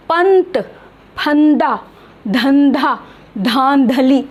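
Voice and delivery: पंत, फंदा, धंधा, धांधली with a dental n; careful, spaced पंत, फंदा, धंधा, धांधली; pronunciation demo. Shown as a demonstration. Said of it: "उच्चारण स्थान में फ़र्क आ रहा".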